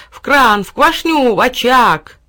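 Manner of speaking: high, loud chanted demands; clamouring cries. A narrator's reading. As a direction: shout each destination eagerly. Characters clamour to go back. (громкие наперебой выкрики)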